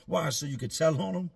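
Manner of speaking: yelled retort. Retold or imitated. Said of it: "somebody yell out".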